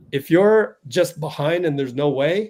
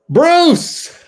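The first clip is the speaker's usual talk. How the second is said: a loud, high, delighted call of the name; high excited shout of welcome; excited greeting; 11 dB louder than usual. Real, not acted. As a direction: call out to him, thrilled he finally made it. Greeting guest joining stream.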